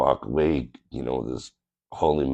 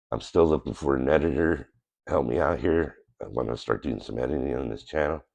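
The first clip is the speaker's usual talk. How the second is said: nasal voice. Real, not acted. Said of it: "nasally sounding voice".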